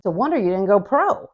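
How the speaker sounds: playful ribbing, upward lift on pro; affectionate tease. Shown as a demonstration. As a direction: tease him fondly, like a friend. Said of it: "here's the way I think it was meant to be said".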